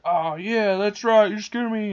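high, loud mock realization; gullible boy. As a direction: imitate a kid eagerly agreeing. Boy won back by evil lady.

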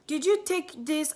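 fussy relative. Retold or imitated. Family checking before school.

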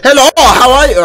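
put-on high French-accented greeting; mock French accent; French monster. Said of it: "the monster's French".

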